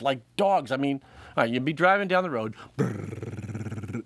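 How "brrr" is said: car engine. Shown as a demonstration. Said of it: "that's my impression of driving".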